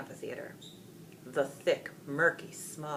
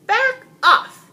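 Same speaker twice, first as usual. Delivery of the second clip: much higher, loud panicked yelling; frightened yell; 15 dB louder than usual. A narrator's reading. King yells at the dragon in panic. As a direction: shoo the beast away in terror. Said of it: "the king yelled".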